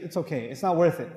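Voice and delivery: calm, understated reassurance; letting it go. Retold or imitated. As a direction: wave the fight away gently. Voices people letting an argument go.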